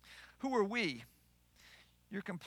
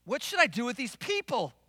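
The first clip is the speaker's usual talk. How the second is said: mildly exasperated acted plea; lightly acted complaint; complaining; 3 semitones higher than usual. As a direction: voice Moses grumbling, at wit's end. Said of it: "Now he's complaining".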